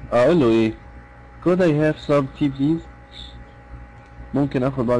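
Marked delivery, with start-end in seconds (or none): 1.4-2.8 slow polite café order, gently rising at the end; a teacher modelling a polite tea order, calm and slow. Shown as a demonstration. Calm polite request. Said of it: "وبتكلم بهدوء كده".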